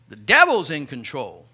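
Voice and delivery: low, ominous voice of worry. Pretend. Worry personified answering contentment, low and ominous. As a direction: drop the voice low and dark.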